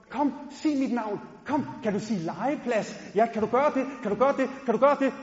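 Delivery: coaxing parent. Retold or imitated. Parent coaxing a small child to speak, sing-song and eager.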